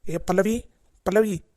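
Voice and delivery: loud call to come quickly. Acted. Husband calling his wife Pallavi to come fast, loud call. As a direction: shout for her from the next room.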